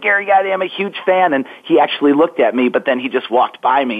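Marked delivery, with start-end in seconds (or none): 0.0-1.3 put-on high, eager child calling out to a player; excited little boy. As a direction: shout up to your hero like a first-grader.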